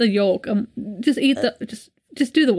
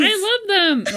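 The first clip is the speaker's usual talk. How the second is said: imitating kid; 10 semitones higher than usual. Echoing the kid's yell.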